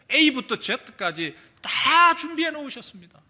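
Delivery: high and slow, every word stressed; emphatic proclamation. Acted. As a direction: drive it home. Emphatic preaching peak.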